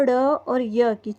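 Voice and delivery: ड़ and य said apart, slowly; sounding out letters. Shown as a demonstration. Teacher splitting चिड़िया into sounds, slowly. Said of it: "चिड़िया में भी तीन ध्वनियाँ हैं".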